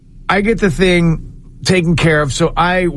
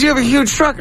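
imitating Bill; 8 semitones higher, faster than usual. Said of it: "He goes".

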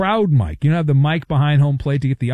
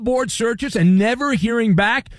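bright, higher host ad read; 3 semitones higher than usual. Acted. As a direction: sell it like a radio sponsor spot. Host reads sponsor ad.

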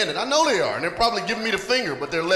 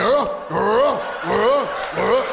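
loud, strained comic grunts; exaggerated grunts of effort, one by one; mimicked straining grunts; 4 dB louder, much slower than usual. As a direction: grunt hard in mock exertion. Mimes strained effort, mocking handjob.

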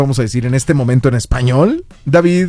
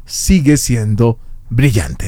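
slow model line; 5 semitones lower, slower than usual. Shown as a demonstration. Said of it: "nos tienes que dar tu mejor francés diciéndonos".

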